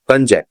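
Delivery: कंजैक said kun-jake, no r at the end; no r sound. Shown as a demonstration. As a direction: say कंजैक without the r. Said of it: "इसको कंजैक बोलते हैं".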